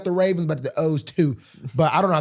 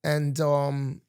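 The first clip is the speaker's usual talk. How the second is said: put-on London accent, dropped r's. Guest describing Tuesday's plans, mock London accent. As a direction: keep up a badly faked London accent. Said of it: "Is that a London accent".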